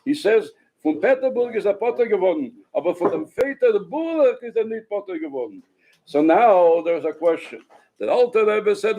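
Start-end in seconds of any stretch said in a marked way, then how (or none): 0.8-5.6 put-on Ukrainian-accented Yiddish quote. Teacher repeating the Breslover's pun, Ukrainian Yiddish accent. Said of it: "they spoke in a Ukrainian accent".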